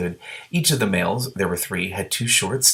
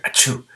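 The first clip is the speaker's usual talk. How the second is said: sneeze. Acted. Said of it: "Every time the gray green, green dragon sneezed".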